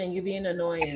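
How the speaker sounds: bursts into laughter; laughing. Real, not acted. Laughing dismissal, laugh heard.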